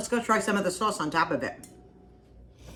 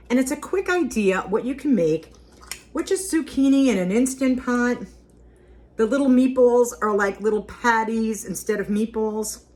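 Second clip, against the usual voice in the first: brighter, louder sales pitch; enthusiastic; 5 semitones higher, 5 dB louder than usual. Real, not acted. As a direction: sell the recipe with gusto. Pitching the recipe.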